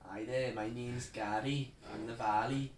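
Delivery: put-on slow Cardiff Welsh accent. Friend answering an accent challenge for Cardiff, Welsh accent. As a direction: put on a slow Valleys lilt. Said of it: "Uh, Cardiff".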